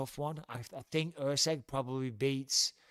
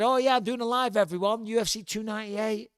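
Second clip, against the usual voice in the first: mock hungry eagerness; 6 semitones higher, 7 dB louder than usual. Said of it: "I was very hungry when I said that".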